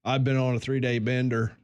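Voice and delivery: light mock redneck accent, the winner who was on a bender; lightly put-on Southern redneck voice. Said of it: "the redneck accent that we were doing".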